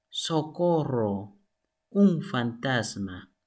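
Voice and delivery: slow, acted cry for help; mock fright. Shown as a demonstration. Teacher acting a frightened exclamation, mock scared. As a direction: call out as if you saw a ghost.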